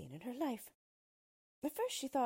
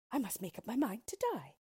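a hint of a despairing queen, pitched up; resigned queen, lightly voiced; poor queen; 5 semitones higher, 4 dB louder than usual. Queen lost in the woods, mildly despairing. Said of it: "said the poor queen".

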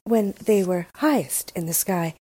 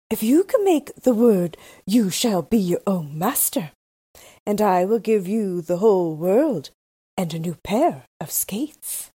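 Snow Queen. Acted. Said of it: "The Snow Queen had said".

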